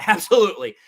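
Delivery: "Absolutely" said through a laugh; laughing agreement. Real, not acted. Host agreeing again with a viewer, laughing.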